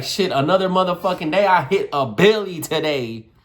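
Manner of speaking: punchy, playful boast; hyped-up swagger; excited bragging. Acted. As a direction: brag with exaggerated conviction. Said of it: "you're saying it with such emotion".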